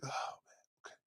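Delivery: very soft resigned reply; deflated giving in. Acted. Host gives in to guests' complaint, hushed and resigned. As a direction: sigh it out almost under the breath.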